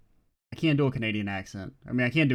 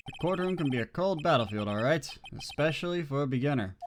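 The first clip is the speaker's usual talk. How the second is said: cool mentor voice. Acted. Voices Godot.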